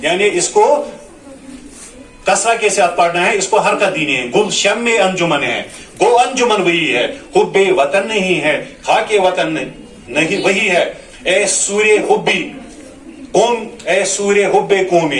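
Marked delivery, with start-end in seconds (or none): 4.3-15.2 sing-song tarannum recitation of the verse; melodic poem recital. Shown as a demonstration. Teacher recites the nazm to show pronunciation in tarannum. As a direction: chant the lines like a mushaira reading.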